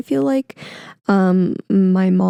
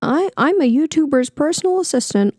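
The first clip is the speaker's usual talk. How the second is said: higher-pitched put-on boast; mock extravagant; 4 semitones higher than usual. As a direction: pretend to show off a glamorous job. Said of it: "this crazy extravagant".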